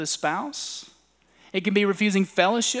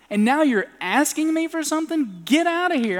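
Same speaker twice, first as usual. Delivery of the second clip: higher, louder mock rebuke; a raised, indignant get out; angry dismissal; 9 semitones higher, 5 dB louder than usual. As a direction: send him away in mock anger.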